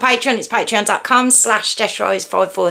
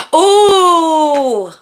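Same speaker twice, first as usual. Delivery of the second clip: surprised gasp; 7 semitones higher, 4 dB louder than usual. Real, not acted. Surprised at news of Lanzarote.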